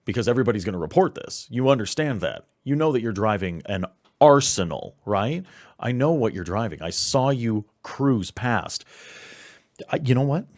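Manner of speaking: loud, furious scolding; angry. Acted. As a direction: yell at him down the phone. Handler berates player on phone.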